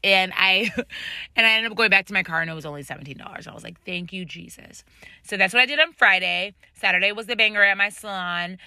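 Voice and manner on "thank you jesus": soft little prayer of thanks; retold quiet relief. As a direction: say it under your voice, acting out relief. Acts out relief at parking charge.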